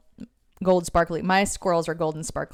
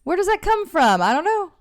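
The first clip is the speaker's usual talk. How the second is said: retold answer; 10 semitones higher, 3 dB louder, faster than usual. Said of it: "And I'm like".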